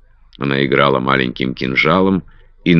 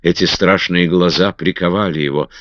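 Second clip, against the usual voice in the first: ordinary delivery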